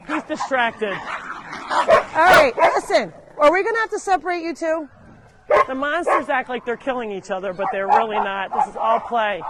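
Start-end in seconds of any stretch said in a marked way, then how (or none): 0.9-4.9 loud, high mild telling-off; exasperated parent-like warning; real scolding. Real, not acted. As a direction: warn two squabbling pets in a raised voice. Telling off two fighting animals.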